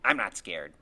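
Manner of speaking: put-on low, loud, firm boy's retort; defiant denial. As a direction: insist firmly that fear is not an issue. Freak defiantly denies being scared.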